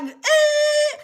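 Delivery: high squeaky machine noise; machine squeal. Retold or imitated. Diamond machine squealing, high and piercing. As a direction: squeal like a broken detector. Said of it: "and be like".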